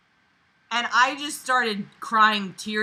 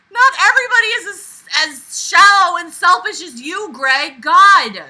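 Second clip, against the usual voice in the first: much louder and higher, fast at first; angry scolding; 7 semitones higher, 10 dB louder than usual. Real, not acted. Reader scolding Greg from the story, loud and angry. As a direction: tell Greg off at full volume.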